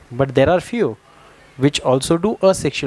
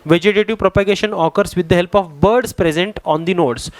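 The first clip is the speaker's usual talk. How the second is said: reading from the book; 2 semitones higher, much slower than usual. Shown as a demonstration. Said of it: "इन्होंने दिया भी है".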